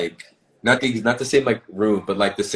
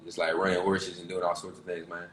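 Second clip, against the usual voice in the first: Southern country accent. Shown as a demonstration. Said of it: "like I'm from the South".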